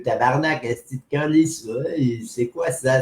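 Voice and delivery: put-on Quebec French accent, sworn out casually; accent québécois. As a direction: imitate a Québécois cursing. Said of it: "ils ont un accent". (accent québécois imité)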